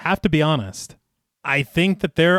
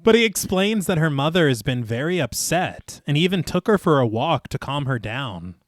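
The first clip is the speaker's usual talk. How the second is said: measured, lilting storyteller read; story narration. A narrator's reading. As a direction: narrate the scene phrase by phrase, each falling to a close. Reads the film rewrite aloud.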